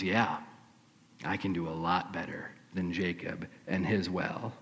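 low, soft, amused confidence; quiet knowing grin. Acted. Jesus quietly answering the doubting woman, low knowing grin. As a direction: say it softly, grinning to yourself. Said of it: "Jesus just sits back and grins".

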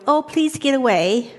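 understated, timid coaxing; half-hearted begging it to leave; mild mock pleading. Someone feebly asks a thought form to go, mildly pleading. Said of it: "move into that thought form going".

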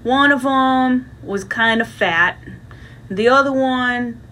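put-on slow story voice for a child; bedtime story. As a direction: read it slowly, like a bedtime tale. Bedtime story for Baby Bear.

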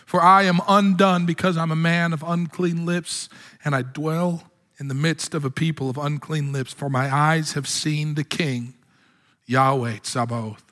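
a hint of the undone prophet; Isaiah's lament. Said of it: "This is Isaiah speaking".

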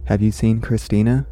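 calm storybook reading voice; story narration. A narrator's reading. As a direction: read it like a bedtime story. Reads the story aloud.

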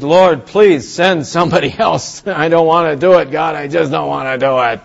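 hammed-up pleading with a laugh breaking in; mock begging. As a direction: plead like a reluctant kid trying to get out of it. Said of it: "Moses begged".

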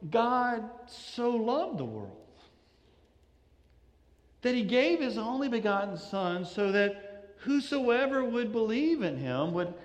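hushed, as if an arm is round his shoulder; tender, intimate Jesus. Retold or imitated. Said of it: "Placing his arm around Nicodemus and saying".

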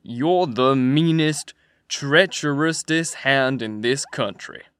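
a rough man threatening his partner; pretty loud. A narrator's reading. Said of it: "Another voice said, pretty loud".

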